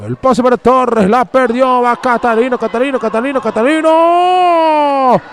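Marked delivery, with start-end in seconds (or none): 1.8-5.2 excited build-up call. Real, not acted. Attacker racing at goal.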